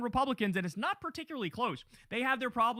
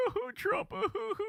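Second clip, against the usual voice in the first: high-pitched fake sobbing; mock crying; 11 semitones higher, 3 dB quieter, much slower than usual. Mocking Alex Jones nearly crying over Trump, high fake sobs. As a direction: whimper in a high, exaggerated weepy voice. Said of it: "Again, nearly crying as like".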